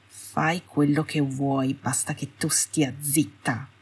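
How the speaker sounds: slow, quiet, irritated drawl; annoyed. Acted. Malfoy dismissing his wife on his way out, annoyed and quiet. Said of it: "il tono seccato".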